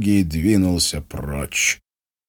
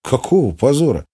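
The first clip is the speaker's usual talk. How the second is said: astonished; 6 semitones higher than usual. A narrator's reading. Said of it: "изумился Игорь".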